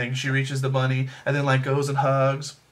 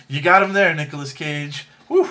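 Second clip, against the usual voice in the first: excited cheer; 5 dB louder than usual. Real, not acted. Cheering Nicolas Cage's comeback line.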